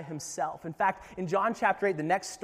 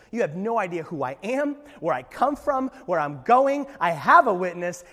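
emphatic challenge; 5 dB louder than usual. Acted. Jesus voiced challenging Pharisees.

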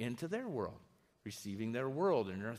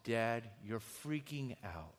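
slow, gentle and matter-of-fact, with a light laugh; a son gently calling out his stressed father; calm, not mean; 3 semitones lower, slower than usual. Retold or imitated. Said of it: "He just said it in a calm".

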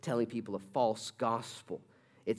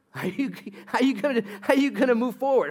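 high, louder put-on voice pushing back; pressing questioner; 11 semitones higher, 7 dB louder than usual. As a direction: needle him with the question.

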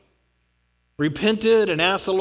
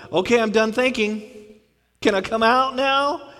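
mock child pleading; 4 semitones higher, 3 dB louder than usual. Child sent to room pleads.

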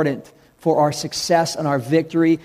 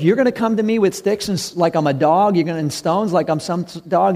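giant voice. Acted. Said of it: "and giant goes".

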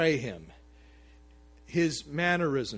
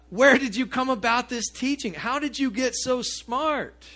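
louder, higher, astonished questioning; amazed temple listeners, higher and louder; astonished crowd; 8 semitones higher, 5 dB louder than usual. Retold or imitated. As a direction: demand it like a stunned crowd. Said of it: "They're like".

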